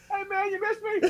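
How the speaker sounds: high, soft teasing voice; Greg the headache. Acted. Headache Greg greeting his sufferer, tiny high voice. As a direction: pipe up small and high.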